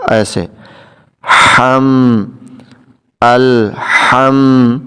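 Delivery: الحم drawn out, light airy ح; breathy h sound. Shown as a demonstration. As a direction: let breath be heard on the ہ in الحم. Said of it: "اس میں سانس کی آواز آتی ہے".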